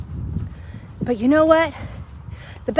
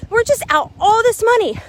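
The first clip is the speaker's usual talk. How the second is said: upset disbelief; 4 semitones higher than usual. Retold or imitated. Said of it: "I was like".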